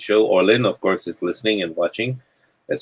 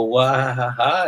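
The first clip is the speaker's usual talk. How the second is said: higher-pitched pretend boo-hoo; mock wailing; 4 semitones higher than usual. Mocking someone who sits down and gives up, mock wail. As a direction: wail "wah" in mockery of self-pity. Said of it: "Sit down and go".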